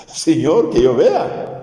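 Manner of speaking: high, imploring plea; pleading beggar. Retold or imitated. The blind man begging Jesus to see, high imploring plea.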